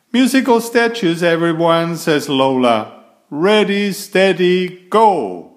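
high, fast, loud game call; excited calling out. Acted. Lola bossily starting musical statues, high and loud.

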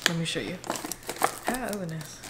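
soft, confidential undertone; quiet near-whisper to the camera; hushed. Real, not acted. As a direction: keep your voice down, someone is upstairs. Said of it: "I have to whisper".

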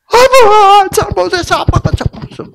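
put-on high, loud frantic child's wail. Daughter hitting her father's chest, frantic high wail. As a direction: howl it like a toddler in a tantrum. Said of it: "막 미친 듯이 그래".

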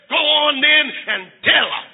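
firm dare with a falling end; defiant brother. Acted. Brother answering sister's threat, defiant. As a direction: dare her, firmly but contained.

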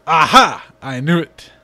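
loud gotcha cry; triumphant shout. Acted. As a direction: call it out like you caught them. Triumphant exclamation.

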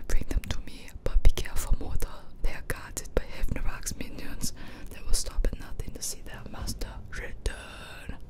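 hammed-up mystical quest-giver, all in whisper; put-on game character voice. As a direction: intone a solemn whispered warning. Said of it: "decided to do this voice".

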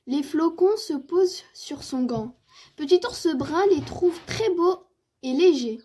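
measured, articulate storytelling with lively emphasis; children's story narration. A narrator's reading. Narrator telling of Petit ours brun's snowy morning, story-reading voice. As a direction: read it aloud for small children.

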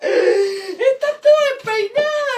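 high, excited exclamations; excited clown. Acted. Clown marvelling at her partner's messy hair, excited. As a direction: gush with theatrical surprise.

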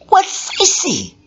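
high, slow pleading question; urgent. Acted. Listener begging for the goddess's words, high and slow.

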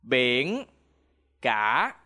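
Biển cả with cả dipping low; Vietnamese tones. Shown as a demonstration. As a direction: drop cả low, then let it rise. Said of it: "practice in phrases".

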